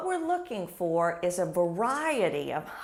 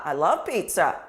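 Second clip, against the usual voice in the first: louder, emphatic delight; excited; 4 semitones lower, 6 dB louder than usual. Shown as a demonstration. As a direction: stress love with enthusiasm. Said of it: "I need to inflect them accordingly".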